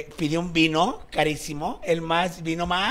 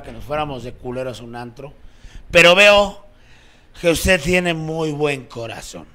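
put-on drunk compadre; 3 semitones lower than usual. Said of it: "De borrachos".

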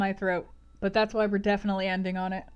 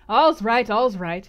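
loud, hasty reassurance; crying out; 7 dB louder, slower than usual. Acted. Host reassures clinging guests, raised-voice cry. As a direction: call out over the clamour to settle them. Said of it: "he cried".

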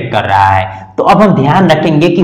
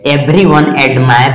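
slow; much slower than usual. Shown as a demonstration. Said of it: "इनके बाद आने वाला".

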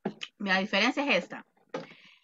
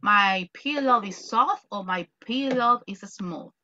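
slow model sentence; slower than usual. Shown as a demonstration. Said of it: "teacher models answer".

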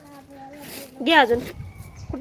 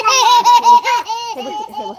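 much higher, louder, very slow laughing burst; 11 semitones higher, 9 dB louder, much slower than usual. Real, not acted. Mother cracking up while showing the baby something. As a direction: dissolve into laughter on the words.

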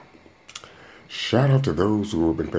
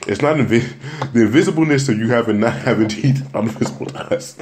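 imitating cousin; 4 semitones higher, 4 dB louder than usual. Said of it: "He was like".

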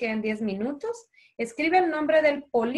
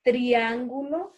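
triángulo said slowly, leaning on the accented á; stressed accented syllable; slower than usual. Shown as a demonstration. Teacher shows kids which words carry tilde, slow stress. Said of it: "llevan tilde".

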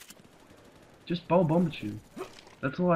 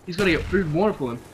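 mock-serious rant; 4 semitones higher than usual. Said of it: "I couldn't keep a straight face".

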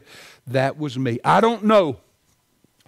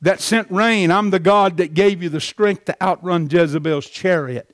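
voice of God; 4 semitones higher, 4 dB louder than usual. Retold or imitated. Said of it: "Maybe he was saying".

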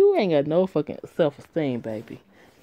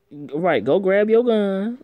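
sarcastic taunt; 3 semitones higher, 4 dB louder, slower than usual. Real, not acted. Reader mocks character, louder slower.

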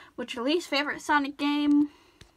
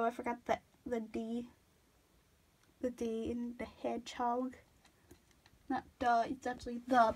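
mouth full; 3 semitones lower, 10 dB quieter than usual. Real, not acted. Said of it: "Sorry, I had a cap in my mouth".

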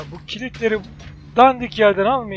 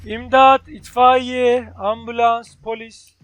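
mock cry for help; 3 semitones higher, 5 dB louder, much slower than usual.

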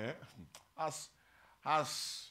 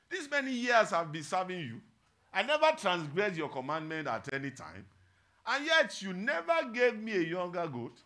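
loud, raised-pitch grievance; angry older son; 4 semitones higher, 7 dB louder than usual. Acted. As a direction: protest to the father, loud and indignant. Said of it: "He was angry".

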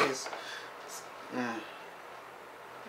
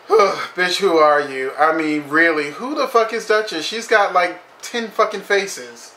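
high, loud outraged disbelief; incredulous rant; 4 semitones higher, 4 dB louder than usual. Real, not acted. Ranting at the show.

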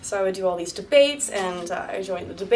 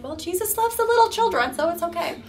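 mock sweet teacher; 10 semitones higher than usual. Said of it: "teachers would be like".

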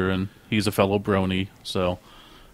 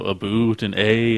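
Canadian accent; slower than usual. Shown as a demonstration. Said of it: "What's a Canadian accent?".

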